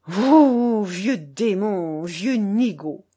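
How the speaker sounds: loud burst, then slow, drawn-out insults; angry scolding. A narrator's reading. Grandmother lifting grandfather while threatening him, angry scolding. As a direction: berate him, stretching each insult.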